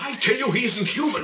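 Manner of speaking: agitated insistence. Acted. Father insists son is machine.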